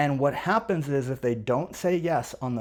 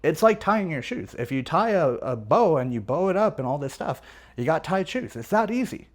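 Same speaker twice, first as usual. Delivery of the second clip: higher, lilting reassurance; reassuring; 3 semitones higher than usual. Acted. Salesperson telling a worried buyer it will work, reassuring. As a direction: make it sound like a simple no-brainer. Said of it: "I'm reassuring him. I'm just telling him".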